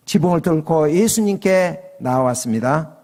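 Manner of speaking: ordinary talk, nothing marked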